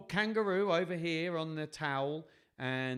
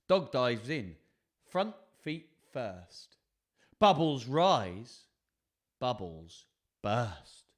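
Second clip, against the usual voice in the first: story narration; 7 dB louder, much slower than usual. A narrator's reading. Reads picture book aloud.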